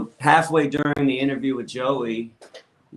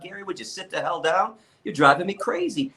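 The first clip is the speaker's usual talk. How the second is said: higher-pitched mock yell, no real shouting; Paul's retold yell; 5 semitones higher than usual. Cellmate yelling at the man pacing his cell, mild mock yell. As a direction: imitate an exasperated cellmate yelling, at moderate volume. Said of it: "my cellmate Paul yelled out".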